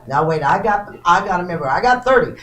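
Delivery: rapid rhythmic auction chant; auctioneer. Real, not acted. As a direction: rattle off the bids like an auctioneer. Live auction bid calling.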